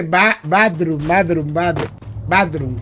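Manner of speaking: "bathroom" sounded out slowly as badrum; careful try at "bathroom", first syllable stretched. Shown as a demonstration. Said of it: "Creo que se pronuncia así". (pronunciando "bathroom" despacio, como badrum)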